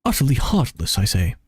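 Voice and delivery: slow, indignant, lofty retort; lightly voiced proud ancient spirit; haughty archaic voice. Second adeptus rebuts.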